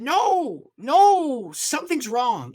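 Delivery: put-on high, loud, drawn-out Ugandan accent; thick Ugandan accent. Guest preacher rejecting the answer, high Ugandan accent. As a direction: imitate a Ugandan preacher, emphatic and alarmed. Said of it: "in his thick Ugandan accent".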